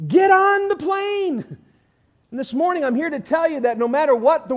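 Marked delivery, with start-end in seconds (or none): 0.1-1.6 slower, high and loud; slowed, ringing repeat; slow emphatic repeat. Acted. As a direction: drive it home slowly. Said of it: "Works is ridiculous".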